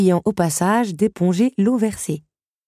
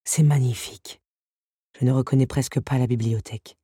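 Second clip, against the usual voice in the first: beast voice; 8 semitones lower than usual. A narrator's reading. Beast admires the cleaned library.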